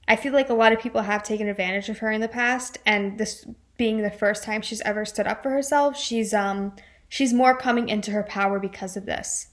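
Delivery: breathless, winded delivery; out of breath. Real, not acted. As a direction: talk between short breaths. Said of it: "I'm so out of breath today".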